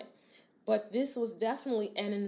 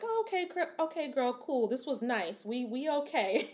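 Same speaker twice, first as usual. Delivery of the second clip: relieved inner voice; 3 semitones higher than usual. Pretend. Nervous system voiced in relief.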